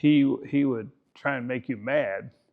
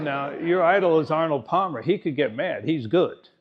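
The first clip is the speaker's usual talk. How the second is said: retold dad's put-down, pitched up a little and punched; needling; 4 semitones higher, 4 dB louder than usual. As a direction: lightly imitate a needling father. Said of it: "he would needle us all".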